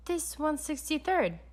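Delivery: sharp interruption. A narrator's reading. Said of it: "I interrupted".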